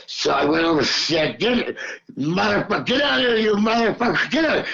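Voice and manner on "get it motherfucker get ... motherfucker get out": yelling at the dog. Retold or imitated. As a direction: chase the dog off with a sharp high shout. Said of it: "And I yelled at the dog".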